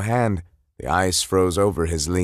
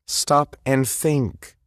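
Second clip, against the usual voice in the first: reasoning; 5 semitones higher, much slower than usual. Acted. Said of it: "trying to reason with his hot-headed brother".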